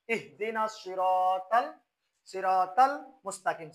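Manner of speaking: slow recitation with সিরাতাল given a thin "taal" for heavy "tol"; mistaken light T. Shown as a demonstration. Teacher shows what people often recite, light-T সিরাতাল. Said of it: "এটা উচ্চারণ হয় তা".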